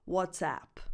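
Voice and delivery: "WhatsApp" ending in the cat vowel; app name pronunciation. Shown as a demonstration. Teacher introducing the first app, "WhatsApp" with cat vowel. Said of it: "and the name of the app".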